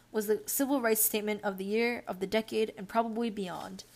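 measured newsreader delivery; news article read-aloud. Acted. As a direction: read it out like a written news report. Resumes reading the article aloud.

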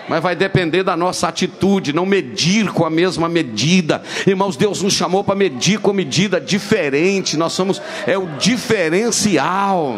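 emphatic preaching. Acted. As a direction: stress each word of the lesson. Preaching conclusion.

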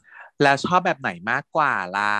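slow teasing question. Retold or imitated. Flirty question in retold scene.

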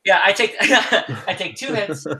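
laughing through the words; giggling while repeating it. Real, not acted. Laughing at the joke.

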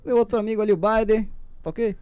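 lightly voiced president speech; a hint of a folksy politician; Bolsonaro impression. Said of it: "Bolsonaro vai morrer".

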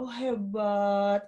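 slow, drawn-out "hebat"; admiring praise. Retold or imitated. Aunt praising her nephew for standing up, admiring. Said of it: "Terus saya bilang".

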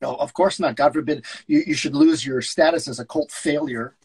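lightly voiced sneering agent; sarcastic agent. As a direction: list his flops with scorn. S0 reads George.

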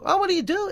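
"what do you do" pitched very high, lifting on DO; rising Dutch melody. Shown as a demonstration. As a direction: swing "Oh, what do you do?" right up like Dutch intonation. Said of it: "it goes up".

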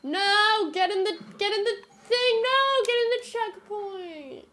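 high loud commands; urgent shouting. Real, not acted. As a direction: yell at the team to move. Urging team in game.

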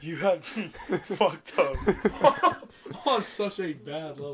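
loud, laughing retold defiance; laughing while telling off mom; laughing through it. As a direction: crack up mid-line. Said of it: "I'm like".

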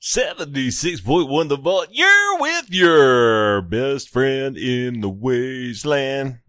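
slow, grand hero-style announcer read; half-joking superhero announcer. Acted. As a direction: boom it out like a comic book superhero, but lightly. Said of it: "I gotta say it like that, like I'm a fucking superhero".

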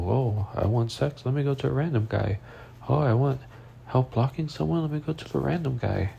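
mildly mocking, lilting imitation; sarcastic mimicry. Mimicking an ex turning to a random guy, sarcastic. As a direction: parody their logic with bitter sarcasm. Mocking the ex's imagined reasoning.

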